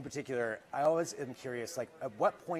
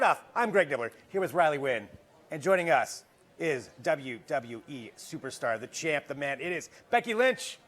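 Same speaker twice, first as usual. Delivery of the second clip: announcer voice. Acted. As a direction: hype her entrance like a ring announcer. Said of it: "like, announcer voice".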